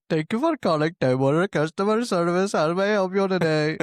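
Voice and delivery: put-on Indian telemarketer accent. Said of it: "I saw".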